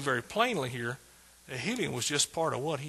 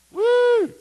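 loud, very high "woo"; one long ringing whoop; exultant whoop; 11 dB louder than usual. Real, not acted. Preacher rejoicing over the scripture, loud high whoop. Rejoicing after reading the promise.

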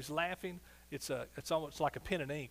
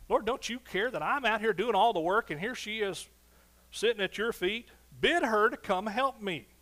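frustrated Martha; 5 semitones higher, 7 dB louder than usual. Acted. Frustrated Martha voiced in sermon.

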